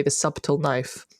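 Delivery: "subtle" with the b sounded, SUB-tul; mispronounced subtle. Retold or imitated. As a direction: say "subtle" as it is spelt, hard b. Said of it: "I used to say".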